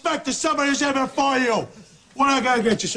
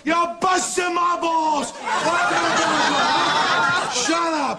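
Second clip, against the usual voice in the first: mock angry rant; 4 semitones higher, much slower than usual.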